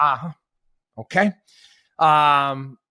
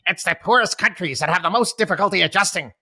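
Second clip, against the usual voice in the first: imitating Robert Reich; 3 semitones higher, faster than usual. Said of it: "That's how he talks".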